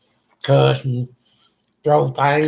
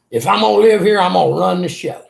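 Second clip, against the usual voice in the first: mildly louder, retelling a bossy declaration; bossy ruler of the house; 2 semitones higher, 4 dB louder, faster than usual. Retold or imitated. Son to his mother, claiming the house, mildly bossy. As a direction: lay down the law, half-acted. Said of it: "I acted like I was the ruler of the house".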